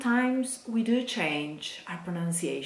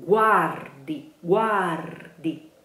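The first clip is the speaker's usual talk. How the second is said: guardi louder, the rd clearly sounded; careful rd; 5 dB louder, slower than usual. Shown as a demonstration. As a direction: land the rd of guardi. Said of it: "syllable that comes next".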